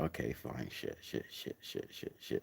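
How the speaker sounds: sinking into a frantic whisper; panicked muttering. Retold or imitated. Whispering to herself as soldiers pull up, panicked. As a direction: swear under your breath as panic rises.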